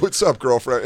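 playful imitation of a greeting; light, teasing mock familiarity; joking. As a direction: toss out a jokey hello. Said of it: "you said it completely jokingly".

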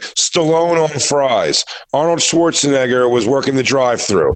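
stretched-out mock celebrity roll call; campy hack-comic announcing; overhyped setup. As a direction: draw the name out slowly like a big reveal. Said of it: "and overhyping it".

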